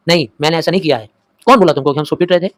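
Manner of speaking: quick, indignant denial; angry denial. Acted. Boy denies it angrily to his mother, quick and indignant. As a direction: snap back fast, offended. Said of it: "फटिक ने गुस्से में answer दिया".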